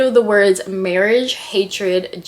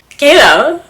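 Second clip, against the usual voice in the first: excited; 8 semitones higher, 10 dB louder than usual. Real, not acted. Gushing at friend's writing.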